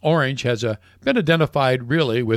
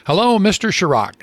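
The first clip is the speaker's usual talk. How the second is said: lightly put-on Irish accent, pitched higher; Irish pub owner phoning the French president, light brogue; friendly greeting in a hint of an Irish lilt; Paddy's Irish accent; 7 semitones higher than usual. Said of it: "a heavily accented voice said".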